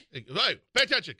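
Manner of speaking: put-on sudden high, loud call to a child; mock parental scolding. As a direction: call a kid to attention, sharply. Demonstrates snapping at a kid.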